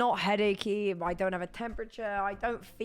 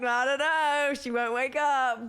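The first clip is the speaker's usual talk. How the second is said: scared; 4 semitones higher, 4 dB louder than usual. Retold or imitated. Retelling a scary moment.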